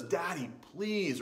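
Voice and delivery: lightly acted child begging Daddy; pleading child. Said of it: "And he pleads".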